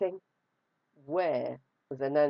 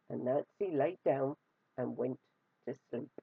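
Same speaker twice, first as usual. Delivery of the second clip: drifting off, softer and softer; fading to hush; 4 semitones lower, 6 dB quieter than usual. A narrator's reading. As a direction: let the voice fall asleep. Storyteller lulls to sleep.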